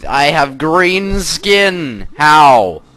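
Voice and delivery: starts with a high, loud nope, then a lightly put-on, slow girlish voice; hammed-up outraged kid sister; a light comic girl voice in denial; mock girl voice. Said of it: "And then she's like".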